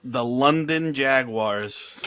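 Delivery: slow, stretched-out team name; drawn-out mock title. Co-host joking about the team moving to London, drawn-out mock title. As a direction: draw it out like a grand title.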